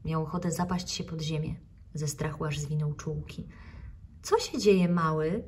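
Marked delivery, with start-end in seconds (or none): 4.2-5.4 concerned. Acted. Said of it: "wyraźnie zatroskana".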